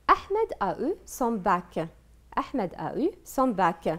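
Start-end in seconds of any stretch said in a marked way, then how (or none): 0.1-1.8 slow teacher read. Shown as a demonstration. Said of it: "repeated for the class".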